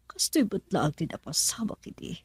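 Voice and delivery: hushed, breathy whisper; soft, unvoiced confession. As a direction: whisper it like a secret memory. Narrator recalls the past quietly.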